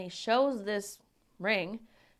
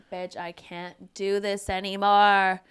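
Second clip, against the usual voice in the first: loud, slow, fed-up outburst; mock desperate sister; exasperated cry; 7 dB louder than usual. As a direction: let it burst out, at the end of her rope. Sister's desperate plea retold.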